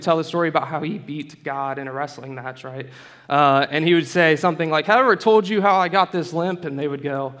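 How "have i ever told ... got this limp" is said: put-on light cowboy accent for an old storyteller. Jacob telling his sons about his limp, in a cowboy accent. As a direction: give the father a touch of cowboy accent. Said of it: "why I gave him that accent".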